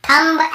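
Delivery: "थंब" said tham-buh; B pronounced. Shown as a demonstration. Teacher recalls the old misreading, "थंब" with B voiced. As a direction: sound the final B in "थंब". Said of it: "ऐसे बोलते थे".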